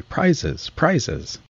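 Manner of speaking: high, excited crowd cry; calling out. A narrator's reading. Whole party crowding round Alice, calling out. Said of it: "calling out in a confused way".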